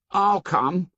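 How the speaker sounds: put-on high, eager boy voice; Piggy voice. A narrator's reading. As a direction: pipe up, keen to join. Piggy eagerly volunteers too.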